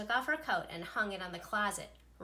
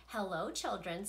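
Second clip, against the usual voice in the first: sweet voice. Acted. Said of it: "someone said in a sweet voice".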